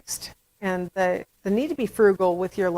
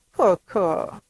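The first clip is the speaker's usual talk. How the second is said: lightly voiced baby babble; imitated baby. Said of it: "you hear the baby say".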